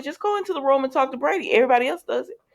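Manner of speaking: high, fast fed-up scolding; exasperated. Real, not acted. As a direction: hurry him along, fed up. Speaker scolds John.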